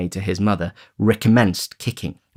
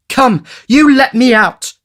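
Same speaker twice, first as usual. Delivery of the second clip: put-on high, slow defiant boy; high, defiant child demanding release; Oliver shouting; 9 dB louder, slower than usual. A narrator's reading. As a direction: yell through the door like a locked-in boy.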